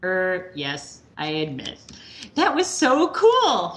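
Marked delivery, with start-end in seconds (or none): 2.3-3.7 crowing. Retold or imitated.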